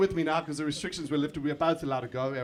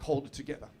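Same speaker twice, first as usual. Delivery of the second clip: quiet; 5 semitones lower, 8 dB quieter than usual. Retold or imitated. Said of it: "I'm like".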